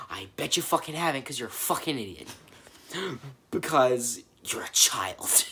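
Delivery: whispered taunt at the character; breathy teasing put-down; mock whispered insult. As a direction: hiss it at Eden like a secret jab.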